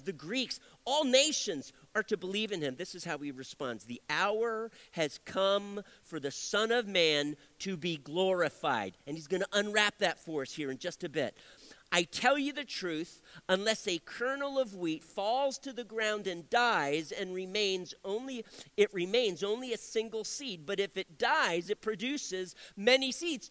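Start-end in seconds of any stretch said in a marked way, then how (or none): 3.8-9.0 slow, deliberate scripture reading; measured reading from the pulpit. Acted. Reads scripture aloud. 11.9-23.5 measured reading from the pulpit; scripture reading. Acted. Reads scripture aloud.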